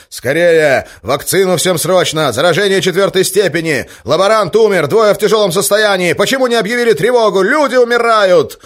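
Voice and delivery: high, loud, urgent shout; yelling. Acted. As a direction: roar it at the shift chief. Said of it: "и заорал".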